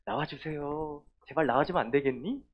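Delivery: a soft, begging request; pleading softly. Shown as a demonstration. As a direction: ask meekly, as the wrong way. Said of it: "이렇게 한 게 아니야".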